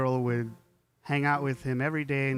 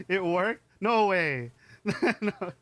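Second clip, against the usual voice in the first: surprised; 6 semitones higher, 4 dB louder, slower than usual. Real, not acted. Surprised by chat.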